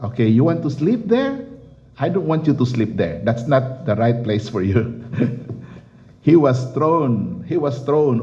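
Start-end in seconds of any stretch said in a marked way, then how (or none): 0.0-5.0 God speaking. Retold or imitated. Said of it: "the Lord said".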